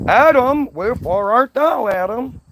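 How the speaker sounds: a mock-theatrical shout for someone hiding. God calling out again.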